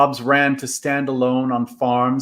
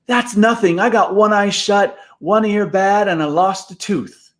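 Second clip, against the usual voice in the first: a lightly voiced boy, higher, bragging about his injuries; boastful boy; 8 semitones higher, 3 dB louder than usual. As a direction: show off your battle wounds like a proud kid.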